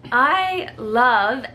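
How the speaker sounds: imitating a drawn-out "I love"; "I love" left hanging before a pause; husband's halting confession. Wife replaying husband's confession, hanging "I love". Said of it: "But this is how he said it".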